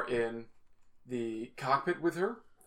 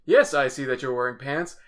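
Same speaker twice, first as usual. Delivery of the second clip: mock improv voice; 5 dB louder than usual. Shown as a demonstration. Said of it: "Those exercises".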